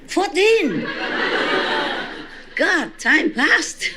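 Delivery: high laughing disbelief at the age; amazed laugh. Real, not acted. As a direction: laugh in real surprise, then slow down on time passed. Hears the boy is fourteen.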